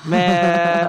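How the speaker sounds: exuberant forgiveness. Retold or imitated. Acted forgiving reply before hug.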